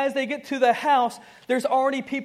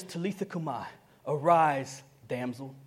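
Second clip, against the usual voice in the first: soft command; 7 semitones lower, 5 dB quieter than usual. Acted. Jesus speaking to the little girl, soft and tender. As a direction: lower and much softer, tender.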